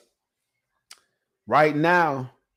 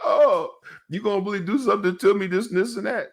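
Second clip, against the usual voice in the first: mock challenge; 6 semitones higher than usual. Son challenging father with strap.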